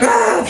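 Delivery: short panicked cry, acted lightly; imitated freak-out cry. Brother throwing things at him, crying out. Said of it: "he starts freaking out".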